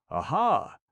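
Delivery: high, loud gleeful aha; delighted exclaim. A narrator's reading. Aubry spotting a friend, gleeful exclaim. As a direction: crow it out with glee. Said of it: "exclaimed Jacques Aubry".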